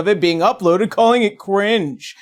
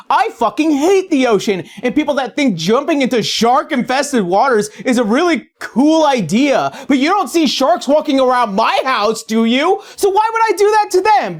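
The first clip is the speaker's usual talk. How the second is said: mock rant; 5 semitones higher than usual. Mock rant about hating the ocean.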